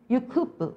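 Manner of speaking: "could" with a tiny "브" tacked on; reduced "could have". Shown as a demonstration. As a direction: say "you could" with "have" shrunk to "브". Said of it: "밑에 거 어떻게 읽겠어요".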